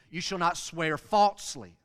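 "falsely" punched loud at the end; preacher stressing FALSELY. Shown as a demonstration. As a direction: land hard on the word "falsely". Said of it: "the word that they would have emphasized".

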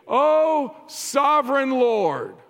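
martyrs crying out. Retold or imitated. Preacher voicing the martyrs in heaven, loud high cry. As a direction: call Oh out loud and high, then slow down. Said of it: "They're crying out with a loud voice".

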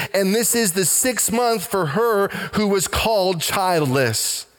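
lifted, measured Bible reading voice; preacher reading Luke aloud; scripture reading. Acted. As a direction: read the passage aloud to the church.

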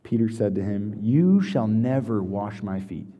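measured, solemn reading of scripture; unhurried Bible reading to the congregation. Acted. Reads scripture aloud.

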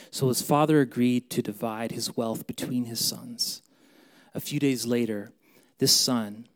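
projected parable narration; scripture reading. Acted. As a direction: read the parable out strong. Reads parable aloud.

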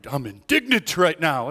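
mildly worked-up mock protest; a touch of huffy emphasis; mock indignation. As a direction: play briefly at being indignant. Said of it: "indignant about something".

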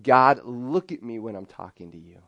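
loud, demanding plea to God; a bold, loud demand. Retold or imitated. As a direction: say it like you're calling God out. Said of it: "the tone of it is David saying".

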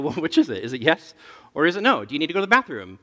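half-laughing exasperation, voice rising at the end; exasperated dad. Retold or imitated. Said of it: "And then I go".

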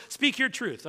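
mocking the slogan. Preacher asks if the church has heard it, mocking. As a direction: lift it up as if it's absurd. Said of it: "have you heard that before".

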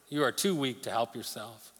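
hushed, menacing repeat of the taunt; quiet taunt. Acted. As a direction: murmur the threat low and close.

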